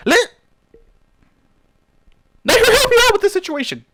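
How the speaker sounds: high, loud frustrated plea; exasperated outburst. Real, not acted. Reader pissed at Warden, high exasperated yell. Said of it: "I'm a little bit pissed at Warden".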